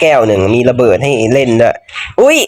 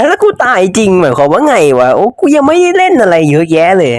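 dismayed outburst; 6 semitones higher than usual. Real, not acted. Character dies in game.

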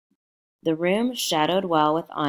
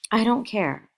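a higher, louder careless cry; cried out; 7 semitones higher, 4 dB louder than usual. A narrator's reading. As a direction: toss it off, defiant and loud. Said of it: "cried Daisy".

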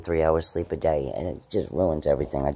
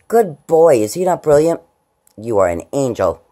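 higher, louder doting praise; pet praise voice; 7 semitones higher, 10 dB louder than usual. Acted. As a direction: gush over the good boy. Praising dog Timmy.

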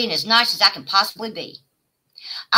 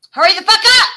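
screamed at full force, much higher; furious shout; 12 semitones higher, 10 dB louder than usual. Real, not acted. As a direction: yell it in a rage. Yelling at rival streamer.

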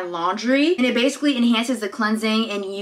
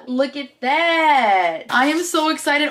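drawn-out delight climbing higher; excited; 4 semitones higher, slower than usual. Real, not acted. Vlogger showing off a gift, excited. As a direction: gush over it, getting higher. Thrilled by the gifts.

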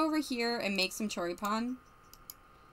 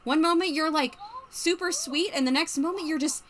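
put-on arguing girlfriend; 4 semitones higher than usual. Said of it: "Yeah, she was like".

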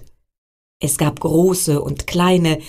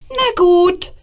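echoing comets; 13 semitones higher, 4 dB louder than usual. Acted. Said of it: "hallte es von den Kometen zurück".

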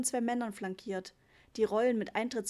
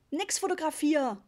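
bellowed; 6 semitones higher, 6 dB louder than usual. A narrator's reading. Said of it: "brüllte Papa".

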